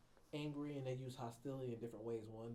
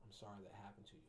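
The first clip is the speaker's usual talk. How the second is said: empathetic demo; 3 semitones lower, 9 dB quieter, faster than usual. Shown as a demonstration.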